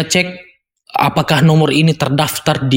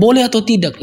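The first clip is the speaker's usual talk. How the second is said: sick caller; 6 semitones higher, faster than usual. Retold or imitated. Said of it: "itu saja pertanyaan".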